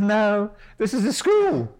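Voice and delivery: retold shout back to a boat; calling back. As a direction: call it out, lightly imitated.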